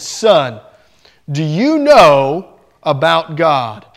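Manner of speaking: lightly voiced intimidating preacher, drawn out; slow, low, looming question to a scared boy; booming pastor. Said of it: "had this very booming voice".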